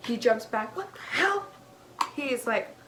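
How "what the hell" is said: high, loud startled outburst. Retold or imitated. Dad jumps back from the doll, startled. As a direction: yelp it, pitch leaping up.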